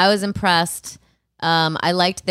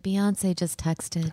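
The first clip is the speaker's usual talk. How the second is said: slow breathy star gush; 7 dB quieter, much slower than usual. Retold or imitated. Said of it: "she's like".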